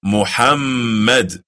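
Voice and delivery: Muhammad said slowly with a held mm; Muhammad with the long mm; correct emphasis. Shown as a demonstration. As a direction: model Muhammad, leaning on the mm. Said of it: "Do you hear the emphasis?".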